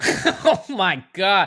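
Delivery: shocked, uncomfortable laugh. Reacting to a shocking detail of a killing, laughing while talking. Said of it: "Sorry for laughing".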